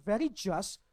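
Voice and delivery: "very just" leaned on, each word weighted; stress on very just. Shown as a demonstration. Pastor underlines the word for the congregation, stressed. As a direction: press hard on "very just". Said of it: "important, underline that word".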